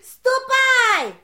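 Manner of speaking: loud high order; sharp command. Acted. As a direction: send him off sharply. Witch dismisses him sharply. (резкий приказ)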